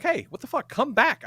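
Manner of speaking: high-pitched retold protest; exasperated pleading. Man phones partner driving off, exasperated pleading. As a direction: plead indignantly for them to return.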